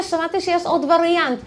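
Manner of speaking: usual speaking voice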